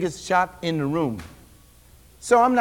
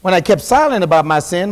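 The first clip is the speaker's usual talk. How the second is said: scripture reading; 2 semitones lower, 4 dB louder than usual. Acted. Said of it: "Look what the psalmist says".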